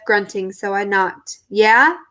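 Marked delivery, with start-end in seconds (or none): 1.5-2.0 out of breath. Acted. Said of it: "He sounded out of breath".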